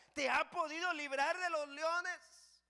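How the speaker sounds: loud, high, drawn-out plea; anguished question. Acted. King asking Daniel if God saved him, anguished cry. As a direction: cry it out slowly to someone in danger. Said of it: "a Daniel con voz de angustia".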